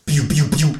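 laser gun noises. Acted. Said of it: "schieße mit meiner Fingerpistole".

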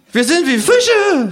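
high, slow, slurred kangaroo voice; drunken kangaroo. A narrator's reading. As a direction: drag each word out high and drunk. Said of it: "sagt das Känguru".

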